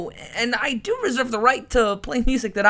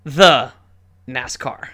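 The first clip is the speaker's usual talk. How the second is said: mock announcer; 9 semitones lower, 5 dB louder, slower than usual. Host repeats it in mock voice.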